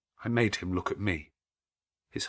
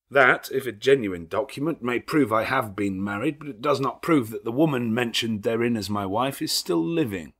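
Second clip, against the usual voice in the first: louder, stiff defiance; defiant groom; 3 semitones higher, 6 dB louder than usual. Acted. Rochester rebuts the lawyer, louder stiff defiance. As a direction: push back coldly.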